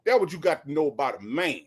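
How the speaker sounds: lightly voiced folksy radio host, laughing through it; Steve Harvey impression. A hint of a radio host lecturing his co-host, amused. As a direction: play the host lecturing Shirley with a chuckle. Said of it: "And then Steve would come in".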